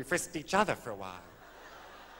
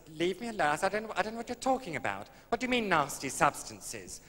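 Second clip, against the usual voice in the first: a hammed-up burst of temper, quick and higher; mock lost temper; 6 semitones higher than usual. Comic traveller snapping at the customs officer, mock exasperated. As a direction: play at losing your temper with the guard. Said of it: "in the end I quite lost my temper".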